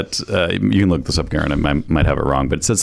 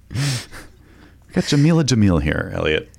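whisper. Real, not acted. Aside joke.

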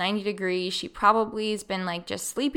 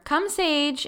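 high, lilting call to a puppy; retold gentle command, pitched up; gentle coaxing; 7 semitones higher than usual. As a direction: coax the dog along lightly. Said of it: "If I would just gently say".

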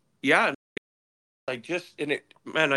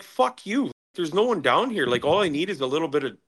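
higher-pitched mock yell at the bystander, fading down; angry retort; 3 semitones higher than usual. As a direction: snap back, pitched way up. Retold angry reply while buried.

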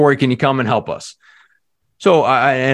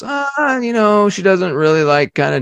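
slower response; 10 semitones higher than usual. Retold or imitated. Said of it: "a slower response".

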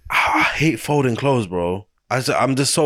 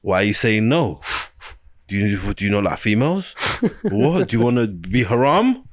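exasperated mum. Retold or imitated. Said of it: "she'd be like".

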